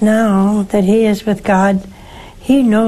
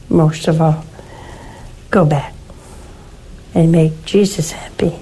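whisper; 4 semitones lower than usual. Acted. Host gently urges the grieving widow, whispering. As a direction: let it fall to a whisper. Host's tender closing urging to widow.

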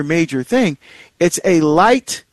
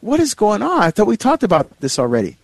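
higher-pitched retold exasperation; mock-incredulous complaint to a spouse; what's-going-on-here exasperation, voiced higher; exasperated; 5 semitones higher than usual. Retold exasperated reaction to light.

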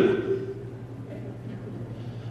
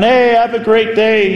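higher, cheery imitated send-off; hearty calling out; 4 semitones higher than usual. Diners walking out slapping backs, hearty imitated call.

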